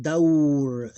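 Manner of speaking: daur as one gliding syllable ending on r; closed with sukoon. Shown as a demonstration. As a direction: glide through daur and stop on r. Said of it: "will be pronounced with sukoon".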